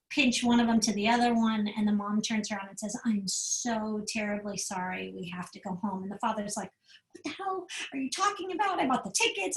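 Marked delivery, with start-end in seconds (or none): 3.0-6.0 calm apology. Retold or imitated. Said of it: "she did what she said in a calm way". 7.1-9.5 a higher, mock-outraged dad; indignant dad. Father objects to the mom about the paid tickets, high and indignant. Father protests leaving Disneyland.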